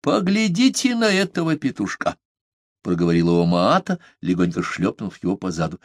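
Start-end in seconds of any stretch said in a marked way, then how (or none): 0.0-2.2 high playful voice of the big island woman; big Omaata teasing. A narrator's reading. Omaata teasing her little rooster. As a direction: tease him like a fond mother.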